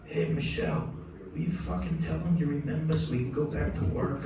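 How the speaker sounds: hushed punchline with a hint of impression; a famous musician. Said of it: "finally Miles goes".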